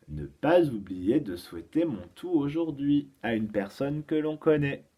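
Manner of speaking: put-on deliberate, spaced-out charade for children; careful teacher's dictation of a riddle; riddle reading. Shown as a demonstration. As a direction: present each clue distinctly, with pauses between. Repeats the charade.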